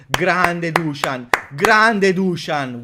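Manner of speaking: loud and slow, each word stretched; drawn-out cheer. Real, not acted. Fan hailing Dusan after the dribble, drawn-out cheer. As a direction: savour the name like a chant.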